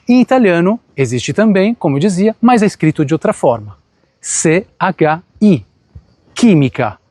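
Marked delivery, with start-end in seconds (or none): 4.2-7.0 "C H I" spelled slowly, then "química" said with a K sound. Shown as a demonstration. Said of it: "A mesma palavra, a mesma pronúncia". (soletrar "C H I" devagar e dizer "química" com som de K)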